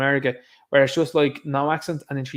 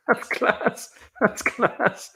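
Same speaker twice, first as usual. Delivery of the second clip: high-pitched words squeezed out through laughing; can barely speak for laughing; real laughter; 9 semitones higher, much slower than usual. Real, not acted. Streamer delighted by a viewer's joke, laughing.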